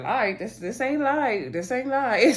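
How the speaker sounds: imitated incredulous comeback, rising in pitch; playful incredulity, pitch climbing on the repeat; mock disbelief. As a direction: retell it as an amused, disbelieving protest. Retells Marcel's disbelieving comeback, laughs.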